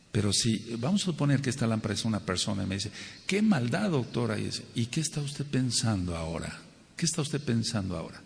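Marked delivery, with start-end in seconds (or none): 3.3-4.5 mock dismay. People lamenting to the doctor, acted dismay. Voices imagined person complaining to him.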